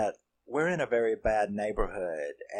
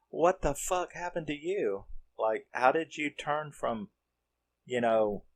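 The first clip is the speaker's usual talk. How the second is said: freaked-out friend; 3 semitones higher than usual. Retold or imitated. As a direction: play the shocked friend who can't believe what she sees. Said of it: "so they're freaked out".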